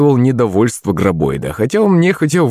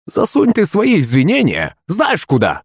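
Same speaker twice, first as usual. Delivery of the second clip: higher-pitched irritated retort; flaring up; 7 semitones higher than usual. A narrator's reading. Old Yadviga rejects the servant's apology, flaring up. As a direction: snap back with mild temper. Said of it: "вспылила Эдвига".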